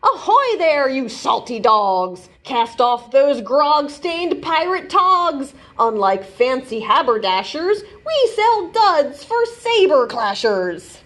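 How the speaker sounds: lively picture book read-aloud; reading to children. A narrator's reading. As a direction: read the rhyming story to kids. Reads pirate picture book aloud.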